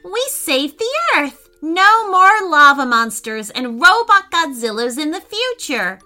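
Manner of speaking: high, loud celebration; excited gasp. A narrator's reading. Preston celebrates saving the earth, excited gasp. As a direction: exclaim it high with relief. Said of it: "gasped Preston".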